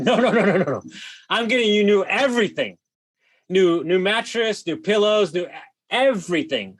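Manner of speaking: overpromise eagerly to calm her down; eager promise to replace everything; excited reassurance. Retold or imitated. Promising the angry guest everything.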